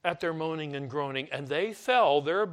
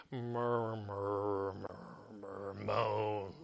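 slow, much softer, murmuring the word murmur; murmured demo; 7 semitones lower, 10 dB quieter, much slower than usual. Shown as a demonstration. Preacher murmuring the word to show its sound. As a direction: let the word fade into a low murmur. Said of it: "the idea of murmuring or grumbling".

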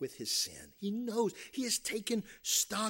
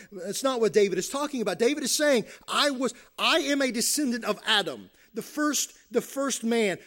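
forceful, higher-pitched sermon delivery; preaching; 5 semitones higher, 7 dB louder than usual. Real, not acted. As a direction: drive the point home from the pulpit. Preaches at full voice.

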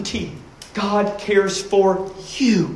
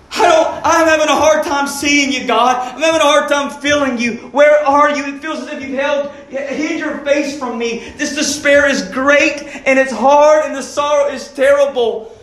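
despairing David; 4 semitones higher than usual. Acted. Preacher voicing David crying out to God, anguished plea. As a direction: voice a man in despair pleading where are you God. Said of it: "He was in real existential despair".

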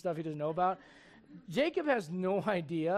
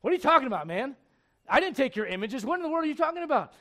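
baffled, defensive protest, pitch jumping up; mock-offended denial, quickening at the end; indignant Jacob; 4 semitones higher, 3 dB louder, faster than usual. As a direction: act out an innocent man's indignation. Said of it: "And Jacob's like".

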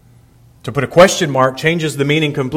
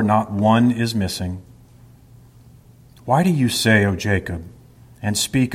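measured, solemn reading of scripture. Acted. Pastor reading Isaiah to the congregation, solemn and measured.

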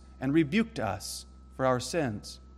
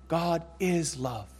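"God is love" slow and softer, hushed repeat; soft echo; 3 semitones higher, 5 dB quieter, slower than usual. Shown as a demonstration. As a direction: let "God is love" fall away gently. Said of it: "is going to go on to say".

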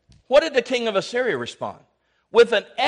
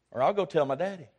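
mock whiny kid; 4 semitones lower, 6 dB quieter, faster than usual. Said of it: "I'm just kidding".

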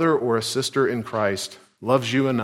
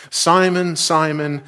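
name called out higher and louder; calling for attention; 4 semitones higher, 3 dB louder, slower than usual. Acted. Jesus calling Peter to grab his attention, raised call. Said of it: "as if to grab Peter's full attention".

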